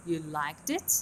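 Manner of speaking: teacher models the rising tune; intonation demo. Shown as a demonstration. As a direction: rise on You liked it, low before the stress. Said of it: "before the stress syllable".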